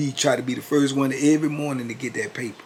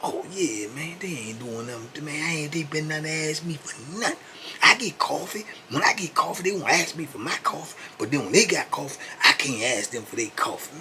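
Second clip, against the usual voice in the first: higher put-on voice, casual then aggrieved; Keith brushing off; 5 semitones higher than usual. Keith telling his cellmate nobody bothers him, high and aggrieved. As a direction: shrug it off, then complain.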